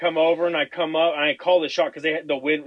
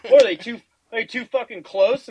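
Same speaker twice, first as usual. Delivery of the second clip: high-pitched baffled question; retold disbelief, voice jumping up; incredulous; 9 semitones higher, 4 dB louder than usual. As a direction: ask it as if it makes no sense. Acting out his disbelief to buddies.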